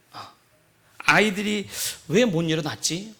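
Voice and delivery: ordinary delivery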